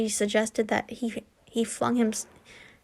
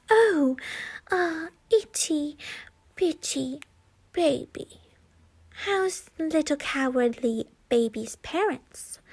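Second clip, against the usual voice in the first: higher, slow sing-song taunt; mocking baby talk; 4 semitones higher than usual. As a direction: coo at him like a baby to mock. Villain mocks Neville with baby talk.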